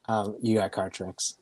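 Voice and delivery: a whispered aside; whispered under the breath. Real, not acted. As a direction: drop to a breathy whisper for yourself. Aside while laughing.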